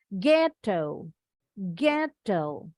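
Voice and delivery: ghetto with GHET lifted and lengthened; stress on first syllable. Shown as a demonstration. Teacher explaining stress marks, ghetto stressed on first syllable. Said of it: "intonasinya lebih naik sedikit".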